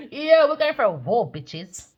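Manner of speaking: hyped. Real, not acted. Hyped rallying call.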